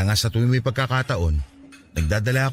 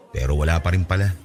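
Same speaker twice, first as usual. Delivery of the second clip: low, dejected acceptance; saddened; 4 semitones lower than usual. Acted. Rejected suitor apologizing to his friend, sad and low. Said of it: "di ko pa rin mapigilan malungkot".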